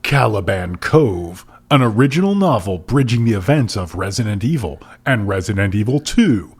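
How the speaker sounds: dramatic promo read of book titles; hammed-up trailer announcer; mock announcer. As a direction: stretch each title, race the blurb. Reads out list of titles.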